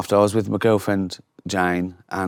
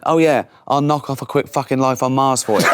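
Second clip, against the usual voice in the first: laughing while quoting; 3 semitones higher than usual. Retold or imitated. Retelling a singer's joke, laughing.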